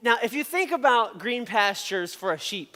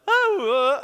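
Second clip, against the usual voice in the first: mock shepherd call; 7 semitones higher, 7 dB louder than usual. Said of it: "make some shepherd noise".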